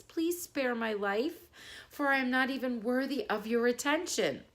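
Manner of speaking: timid mouse pleading with the lion; squeaky frightened mouse. Acted. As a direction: plead like a tiny scared mouse. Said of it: "squeaked the frightened little mouse".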